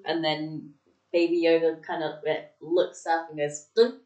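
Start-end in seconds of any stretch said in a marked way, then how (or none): 3.7-3.9 brief imitation of a cute creature noise; cute little noise. Baby Yoda looks up at his name, cute little imitated noise. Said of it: "whatever the cute little noise he makes".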